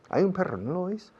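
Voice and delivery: UN stressed, pitched high; stressing un. Shown as a demonstration. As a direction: lean hard on "un" in "hay un perro". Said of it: "Y decís un".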